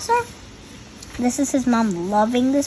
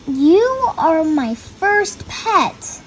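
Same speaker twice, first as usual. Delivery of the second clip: gentle Pete voice; 5 semitones higher, much slower than usual. Acted. Pete speaks to new fish.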